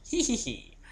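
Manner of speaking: high little hee hee giggle; soft high-pitched tittering. Real, not acted. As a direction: giggle at your own joke. Giggles after beach joke.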